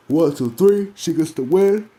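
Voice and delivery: hammed-up commentator calling the win; mock pinfall call. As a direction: call the three count like ringside.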